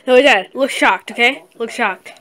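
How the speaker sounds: loud and animated. Real, not acted. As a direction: boss dad around, loudly. Directing dad loudly.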